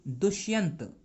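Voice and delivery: दुष्यंत ending on the consonant t, no final a; correct name reading. Shown as a demonstration. Teacher shows students how to read the name, correct name reading. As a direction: say दुष्यंत with a clean stopped ending. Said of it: "क्या पढ़ेंगे इसको?".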